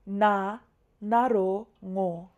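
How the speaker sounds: "Na, naro, ngo" with a gap after each part; step-by-step oral spelling. Shown as a demonstration. Teacher repeating a spelling for learners, recited step by step. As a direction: recite letter, vowel name, then combined sound. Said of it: "say first the nga, and then the name of the vowel".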